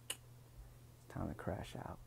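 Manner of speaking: sleepy and slow; drowsy trailing off; tired. Real, not acted. Tired, signing off.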